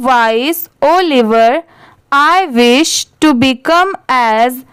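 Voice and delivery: very slow, word-by-word reading; deliberate, spaced-out classroom read-aloud; slow model reading. Shown as a demonstration. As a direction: read aloud slowly for learners, pausing between phrases. Reads the paragraph aloud slowly.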